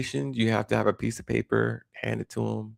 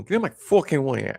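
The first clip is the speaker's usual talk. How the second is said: mock New York irritation, slightly raised; lightly voiced pushy New Yorker accent; angry New Yorker; 4 semitones higher, 3 dB louder than usual. Imitating the typical New Yorker's attitude, mildly angry New York accent. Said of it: "do they all have the angry".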